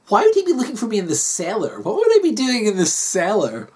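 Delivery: lightly voiced baffled wife; a touch of incredulous protest; puzzled Kathy. Wife questioning what husband tells her, puzzled.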